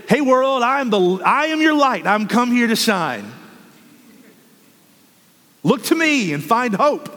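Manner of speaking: high, bold proclamation to the world; bold declaration. Pretend. Believer announcing to the world, boldly and high-pitched. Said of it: "walk out the door and say".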